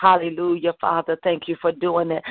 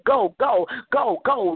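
barked order; 5 semitones higher than usual. Real, not acted. Commanding deafness to leave.

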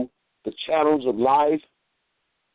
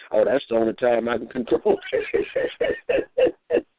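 daughter's laughing reply; slower than usual. Retold or imitated. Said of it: "Shama, why you messing".

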